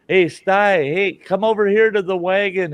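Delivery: high-pitched imitated call; retold call, voice pitched well up; EMT calling out. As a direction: beckon someone over from a distance. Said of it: "The E M T goes".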